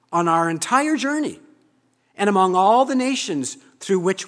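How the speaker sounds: loud, high fervent vow; the people's vow. Acted. People answering Joshua, loud fervent vow. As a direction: cry it out as a crowd's pledge. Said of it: "Our words".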